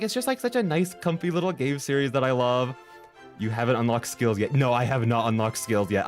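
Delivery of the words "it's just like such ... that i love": cutesy gushing. Retold or imitated. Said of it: "'Cause I'm like".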